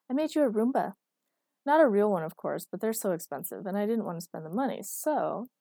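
put-on proud, a bit defensive inventor girlfriend; a hint of an eager Erica; Erica's voice.

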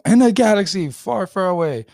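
high, loud epic trailer announcer; movie trailer voice. Pretend. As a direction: boom it out like a blockbuster trailer. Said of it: "I'm gonna do a movie trailer voice".

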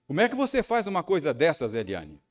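confronting his wife in the car rehearsal, scolding; rehearsed angry question. Retold or imitated. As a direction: rehearse the accusation with rising anger. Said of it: "ensaiei três perguntas".

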